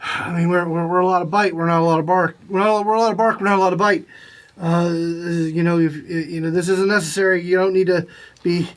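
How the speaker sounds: a lightly voiced flustered pirate. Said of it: "little flustered".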